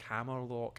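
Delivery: Hammerlock in a soft Scottish accent; a hint of Scottish on Hammerlock. Shown as a demonstration. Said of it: "say Hammerlock in a Scottish accent".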